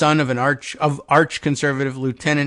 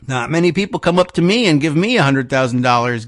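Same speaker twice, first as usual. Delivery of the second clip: put-on old Georgia accent. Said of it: "old Georgia in my accent".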